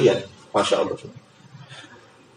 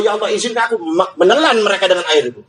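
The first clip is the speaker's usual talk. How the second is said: higher, urgent begging; pleading creation; 4 semitones higher, faster than usual. Acted. Sky begging God to punish mankind, high and urgent. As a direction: plead for permission, pitched up. Sea begs to drown humans.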